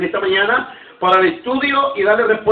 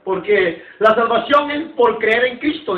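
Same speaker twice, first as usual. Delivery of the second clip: mocking careless doubter; 3 semitones higher than usual. Preacher imitating people who shrug off church, fast and scoffing. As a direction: rattle it off like someone who couldn't care less. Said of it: "dicen algunos".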